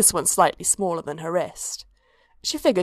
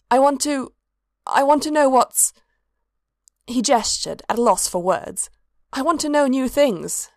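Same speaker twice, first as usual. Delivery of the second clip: higher, halting, earnest want; eager; 6 semitones higher than usual. Acted. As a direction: stumble for words, yearning. Eager cultist struggling for words.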